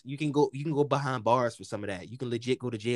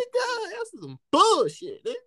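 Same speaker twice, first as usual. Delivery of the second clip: exaggerated complaint; 4 dB louder than usual. Complaining to friend about cousin, exaggerated protest. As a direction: stretch it out like you're outraged.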